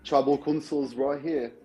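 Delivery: a light, slowed take on the host's announcement; imitating Jonathan. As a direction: lightly mimic the host revealing the twist. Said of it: "That's my best accent".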